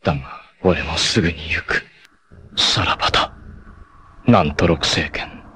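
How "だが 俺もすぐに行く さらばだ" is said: soft farewell. Acted. Farewell to the dying foe.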